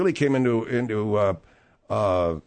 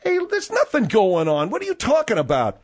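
shrill overlapping reality fight; 8 semitones higher than usual. Acted. Host denies accusation in quarrel.

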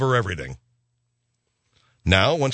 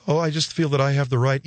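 mock singer. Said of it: "cop popping him".

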